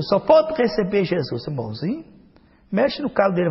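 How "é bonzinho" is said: "bonzinho" with a rising, doubting tune; mock disbelief at "bonzinho"; sarcastic question. Shown as a demonstration. Preacher mocking the idea, "bonzinho" rising in doubt.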